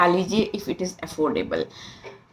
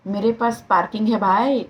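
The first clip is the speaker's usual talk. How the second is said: playful take on Shashi Kapoor's calm delivery; mock-calm movie line, lifting at the end; calm, natural tone. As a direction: say it simply, like an understated film comeback. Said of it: "बड़े स्वाभाविक शांत स्वभाव tone में".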